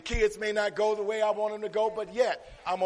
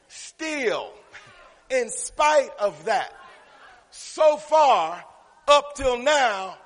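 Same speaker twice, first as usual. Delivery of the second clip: preacher hammering out key words; emphatic preaching; 6 semitones higher, 7 dB louder, slower than usual. Real, not acted. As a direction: drive each phrase home to the congregation. Preaching a word's definition.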